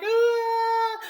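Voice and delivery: very high imitated shriek; mock scream. Rose retold, imitating her very high shriek. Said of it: "And she's like".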